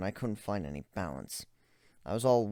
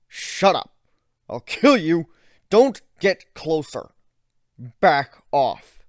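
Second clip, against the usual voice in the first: higher, much louder frantic yells; panicked shouting; 7 semitones higher, 13 dB louder, slower than usual. Acted. Ivan screaming at the approaching narrator. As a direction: scream to keep him away.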